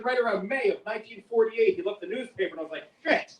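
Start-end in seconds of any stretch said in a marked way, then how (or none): 3.0-3.4 high, loud comic alarm; acted dismay. Great-grandfather reading the newspaper, dismayed and high. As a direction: cry out, then stretch the realization.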